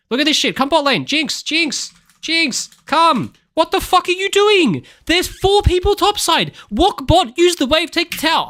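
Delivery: high, loud frustrated yelling at teammates; heated yelling. Real, not acted. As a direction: yell orders at a team that won't listen. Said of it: "Sorry, guys, I got a bit heated".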